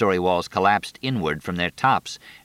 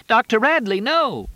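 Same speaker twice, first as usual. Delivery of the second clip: high desperate scream; 5 dB louder than usual. A narrator's reading. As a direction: scream his name in horror. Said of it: "She screamed".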